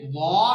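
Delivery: वा in a thick, full voice; heavy letter. Shown as a demonstration. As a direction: stretch वा slowly and heavily. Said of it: "इसे मोटा पढ़ना है".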